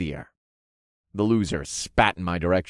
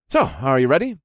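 slightly raised, louder character voice; challenging hero; 4 semitones higher, 5 dB louder, faster than usual. A narrator's reading. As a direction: ask it as a challenge to an opponent. Hero addresses his first opponent.

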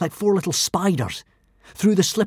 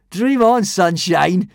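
grinning; 3 semitones higher, 5 dB louder, much slower than usual. A narrator's reading. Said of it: "grinned Hiccup".

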